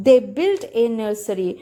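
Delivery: slow, careful reading of the passage; slow reading aloud. Shown as a demonstration. Teacher reading the story slowly to students. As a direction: read it out slowly for the class.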